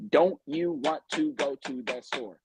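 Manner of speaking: every word bitten off, frustrated; clipped, aggressive enunciation of "Don't you want to go to the store?"; enunciating with aggression. Shown as a demonstration. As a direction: lean hard on each word like an annoyed coworker. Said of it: "enunciating with aggression on every single word".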